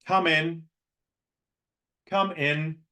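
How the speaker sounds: "Come in" on one flat pitch; monotone. Shown as a demonstration. Coach greets a latecomer in a monotone. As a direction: say "Come in" without any rise or fall.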